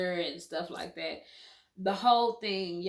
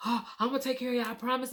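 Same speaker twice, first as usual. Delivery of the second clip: imitating husband; 4 semitones higher, much faster than usual. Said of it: "So I'm".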